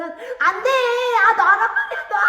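loud, high struggling shout. A narrator's reading. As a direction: yell to be let go, fighting the grip. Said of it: "하고 외치면서". (놓으라고 버둥대며 외치는 소리)

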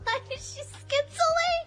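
high, slow, laughing disbelief. Real, not acted. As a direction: laugh through the question.

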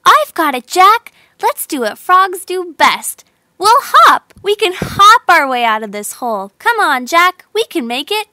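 bright high hopeful call; rally your friend up out of the hole; eager, excited. A narrator's reading. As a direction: Jill cheering Jack on, high and loud. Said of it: "Jill replied".

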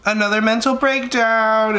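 loud, slow, dramatic reading; dramatic title voice. Retold or imitated. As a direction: announce it like a big headline. Mocking a video title.

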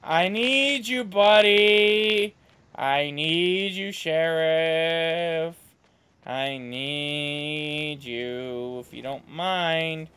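slow drawn-out pep talk; Coach's voice. Acted. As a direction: plead like a hammy coach. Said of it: "in, uh, Coach's voice".

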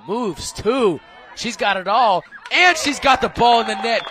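building from plain into a loud, high goal call; excited goal call. Acted. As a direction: ramp up and explode on the goal. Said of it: "you can do an English accent for a goal".

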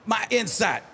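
Stephen A. Smith. Retold or imitated. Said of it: "Stephen A. Smith predicting".

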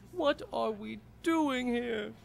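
high, slow, dopey put-on voice; a silly cartoon hero calling out; goofy high voice. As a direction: play Frank as a dim, high-voiced goof. Goofy Frank voice ordering pizza.

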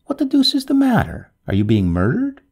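mild storybook shout, starting high; restrained shout down the wind. A narrator's reading. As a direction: call out in alarmed disbelief. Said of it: "he shouted down the wind".

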